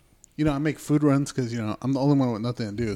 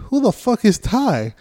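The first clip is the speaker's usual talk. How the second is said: retold confusion; 9 semitones higher, 6 dB louder, slower than usual.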